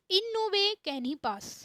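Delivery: slow, lifted model sentence; spaced English phrase. Shown as a demonstration. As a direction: present the example clearly. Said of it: "model sentence, slow and high".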